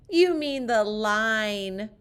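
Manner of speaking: mild playful yell; mock yell. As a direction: holler the correction like kids. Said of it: "we yell".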